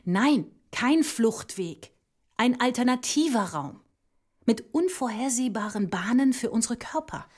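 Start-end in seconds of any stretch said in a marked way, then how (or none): 0.0-1.9 slow, firm contradiction; deliberate, emphatic refusal; emphatic correction. Acted. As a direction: pause after the no and stress each word. Staged rebuttal of the idea.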